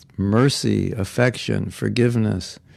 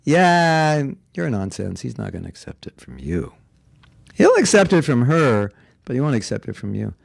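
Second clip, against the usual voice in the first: taunting Maya. Acted. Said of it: "Maya will come and say".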